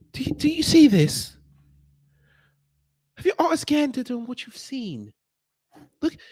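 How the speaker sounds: high, gushing mock white tourist calling to Karen; mock tourist woman. Mocking a tourist shouting to her friend, high and gushing. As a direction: ham up a gawking tourist pointing out the locals.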